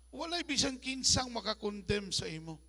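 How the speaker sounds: ordinary talk, nothing marked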